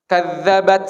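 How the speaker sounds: "kadzabat" with a firm final t, no hiss; example word. Shown as a demonstration. Teacher gives an example word, a firm final t. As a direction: punch the t in "kadzabat". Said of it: "kadzabat ada sa-nya".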